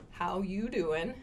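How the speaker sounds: slow flirty how YOU doing with a rise on you; Joey from Friends. Retold or imitated. Teacher imitates the Friends line for learners. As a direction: lean on you, lightly mock-flirty. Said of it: "in that intonation".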